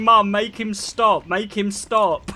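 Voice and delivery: imitating a crying sister, loud and drawn out; slow, whiny mock wail for rescue; mock crying plea. Crying sister begging mum during ear piercing, mock tearful plea. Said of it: "starts crying her eyes out".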